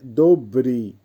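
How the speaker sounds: teacher modelling দোব্রি clearly; careful pronunciation demo. Shown as a demonstration. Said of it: "উচ্চারণ হবে". (দোব্রি-র স্পষ্ট উচ্চারণ)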